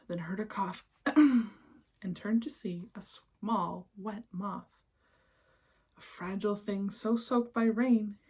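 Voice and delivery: lilting rhymed read-aloud; storybook narration. A narrator's reading. Reading a rhyming picture book to children, lilting storyteller voice. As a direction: read the verses like a bedtime book.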